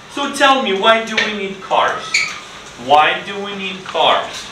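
high, lifting question to the class; bright teacher question. Shown as a demonstration. Teacher asks the children eagerly, high and lively. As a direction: coax the class to answer. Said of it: "teacher asking class".

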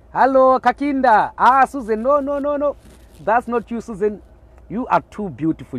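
loud excited greeting. Real, not acted. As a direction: hail the viewer by name.

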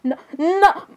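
very high squeal of a name; high-pitched shocked squeal; shocked outcry. Pretend. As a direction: shriek it out through laughter. Shrieks at Jeff over his remark.

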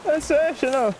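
high, delighted Irish lilt; put-on Irish cheer; Irish accent. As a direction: hail the lads as an Irishman. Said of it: "wanna speak like this".

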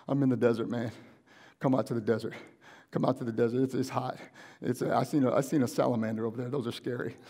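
low, understated plea for help; acted desperation. Stranded friend phoning from the desert, understated desperation. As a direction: downcast caller, pitched a little under normal. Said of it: "the desperation in their voice".

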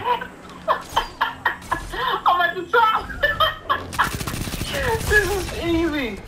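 villain voice. Pretend. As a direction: gloat like an anime villain. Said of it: "You sound like a villain".

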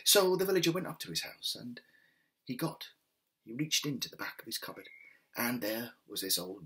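gentle storyteller reading a folk tale; story narration. A narrator's reading. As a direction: tell it like a bedtime story.

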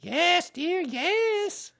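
very high motherly humouring; high-pitched soothing mother animal. A narrator's reading. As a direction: placate the child in a high voice. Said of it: "said Kanga soothingly".

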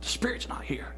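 hushed unvoiced whisper; whispered inner doubt; whispered thought.

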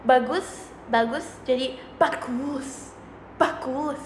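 thick Javanese bagus. Shown as a demonstration. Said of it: "Medok Jawa".

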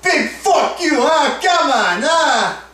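taunting shout. Acted. Taunting rival's fans on camera.

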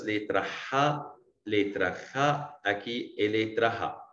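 Ra drawn out slowly, letter by letter; slow letter demo. Shown as a demonstration. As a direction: spell out letra Ra slowly for beginners. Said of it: "três letras mais confusas". (letra Ra bem devagar)

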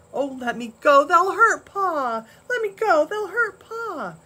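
Laura begging Ma to let her go to Pa; frightened plea. A narrator's reading. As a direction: beg to be let go, terrified for Pa. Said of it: "Laura screamed in a whisper".

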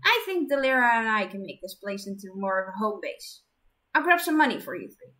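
put-on brisk, bright young woman; eager friendly helper; character voice. Character voice in story.

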